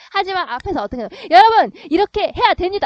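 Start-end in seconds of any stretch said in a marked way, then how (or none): 1.3-2.8 very loud, self-assured, confident, assertive commanding tone. Showing a persuasive way to address an audience, clear confident tone. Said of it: "이렇게 당당한 말투로 얘기를 하게 된다면".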